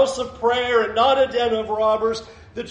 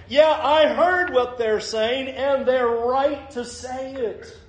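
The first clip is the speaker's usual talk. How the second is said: emphatic affirmation; 4 semitones higher, slower than usual. Acted. Jesus' defiant reply, acted.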